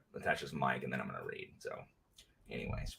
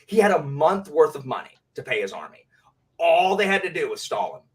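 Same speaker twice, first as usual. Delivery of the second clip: mad rant. Real, not acted. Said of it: "I don't know why I'm so mad about that".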